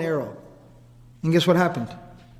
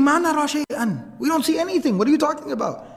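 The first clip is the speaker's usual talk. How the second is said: higher-pitched, baffled objection; retold bewildered protest; 6 semitones higher than usual. Family tells the man they see nothing, retold bewildered protest.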